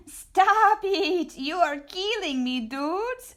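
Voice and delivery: high, loud cry of delight; loud mock protest. Scapito begging the dancing dogs to stop, loud. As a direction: beg them to stop, cracking up.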